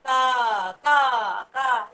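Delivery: repeated drawn-out caws; crow caw. Shown as a demonstration. Teacher leading children flying like crows, repeated cawing. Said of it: "sound like a crow".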